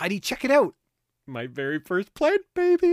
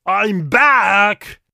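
tough angel; 3 semitones higher, 10 dB louder than usual. Pretend. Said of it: "the big, tough kind".

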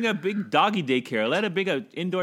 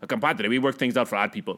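lower, lightly put-on Mexican accent; 7 semitones lower than usual. Politician selling the deal to his people, Mexican accent. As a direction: sell it in a mock Mexican accent. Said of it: "politicians will go back and try to sell it".

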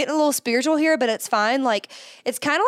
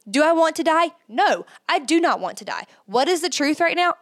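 aggressive self-talk; 5 semitones higher than usual. Shown as a demonstration. Attacking her own intrusive thought, aggressive and firm. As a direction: challenge the thought head-on. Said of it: "being aggressive about it".

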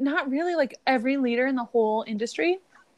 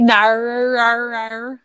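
exaggerated Australian "no"; mock Australian; much slower than usual. American host teasing her Australian friend, mock Australian accent. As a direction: stretch it out, making fun of Australian speech. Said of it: "like you're making fun of Australian people".

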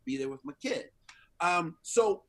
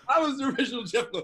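fast; 7 semitones higher, 5 dB louder, much faster than usual. Shown as a demonstration. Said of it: "faster repeat of the same line".

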